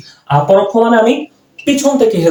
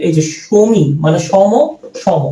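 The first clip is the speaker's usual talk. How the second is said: slow teaching; slower than usual. Shown as a demonstration. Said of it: "এভাবে করে মনে রাখতে পারবো".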